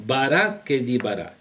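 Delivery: Barakedibara said clearly, falling at the end; careful pronunciation. Shown as a demonstration. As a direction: settle on Barakedibara with a falling close. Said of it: "No es abracadabra, es".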